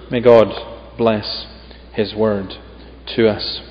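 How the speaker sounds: measured, solemn Bible reading; scripture reading. Acted. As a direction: read the passage with weight, phrase by phrase. Reads scripture aloud.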